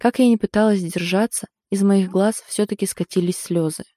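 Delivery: plain reading voice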